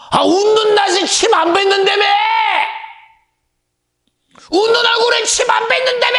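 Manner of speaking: very high, loud crying shout; hammed-up sobbing protest from the pulpit; mock wailing protest. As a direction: wail the proverb like a wronged child.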